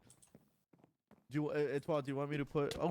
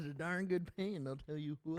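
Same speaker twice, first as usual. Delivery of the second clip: Texan drawl; 4 dB quieter than usual. Pretend.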